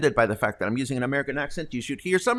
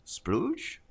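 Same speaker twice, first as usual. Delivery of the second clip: high questioning rise on splooge, softer; as if checking the word is acceptable; unsure asking; 8 semitones higher, 7 dB quieter than usual. Real, not acted.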